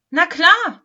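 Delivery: high, loud cry of agreement; eager shout. A narrator's reading. Lametta confirms the address to the Wichtel, shouting. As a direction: shout a keen yes, pitched high. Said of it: "schrie Lametta".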